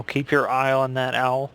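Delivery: usual speaking voice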